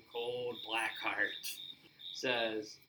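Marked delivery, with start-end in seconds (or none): 0.1-1.3 slow, dripping sarcasm; sarcastic. Retold or imitated. Shawn mocking Taker's cold heart to his face, sarcastic. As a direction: draw it out mockingly. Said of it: "Shawn says with sarcasm".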